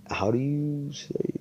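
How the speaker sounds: quick whisper to himself; whispered aside. Real, not acted. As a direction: whisper it under your breath. Aside while searching for word.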